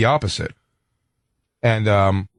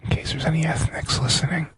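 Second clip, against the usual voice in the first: conspiratorial whisper; 6 semitones higher, 7 dB quieter than usual. Pretend. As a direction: whisper so nobody overhears. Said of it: "why are we whispering?".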